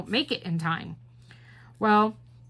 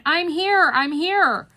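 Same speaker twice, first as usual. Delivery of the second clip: high, louder retold call; 7 semitones higher, 4 dB louder, slower than usual. Late passenger to the agent shutting the door, calling out. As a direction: mimic calling ahead to stop someone.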